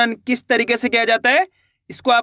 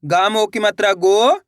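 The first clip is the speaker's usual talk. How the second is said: syllable-by-syllable reading. Shown as a demonstration. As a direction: spell it out, ending on a long rising गो. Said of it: "दो दो करके ही पढ़ सकते हो".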